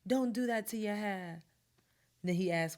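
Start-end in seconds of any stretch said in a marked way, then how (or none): 0.1-1.4 higher-pitched mock British protest; British accent. Imagining him begging her to keep her hair, mock British accent. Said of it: "What is up with this British accent".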